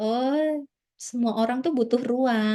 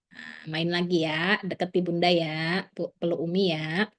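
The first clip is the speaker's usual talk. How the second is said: soothing mother; 2 semitones lower than usual. Shown as a demonstration. Mother soothing crying child.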